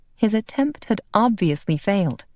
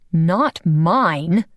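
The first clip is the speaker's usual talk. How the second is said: a growled denial, mildly louder; 4 dB louder than usual. Acted. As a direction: snap back defensively. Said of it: "he growled".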